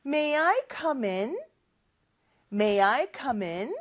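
"come in" blended as one word, comin; slow model with "come" flowing into "in"; linked come in. Shown as a demonstration. Teacher modeling linked come in for students to repeat. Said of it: "그거 다시 한번 생각하면서 따라해볼까요".

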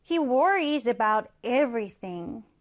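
He worries about everything, read very slowly; slow example read. Shown as a demonstration. Teacher reading the second example slowly. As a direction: read it word by word for learners. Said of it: "하나 더 보겠습니다".

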